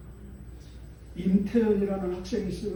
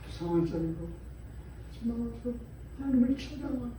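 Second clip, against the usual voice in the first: hushed exhortation; 6 dB quieter than usual. Acted. Quiet earnest exhortation.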